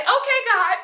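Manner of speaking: high, stunned disbelief; half-laughing wow, really, God; incredulous okay God. Retold or imitated. Reacting to pandemic as a sign.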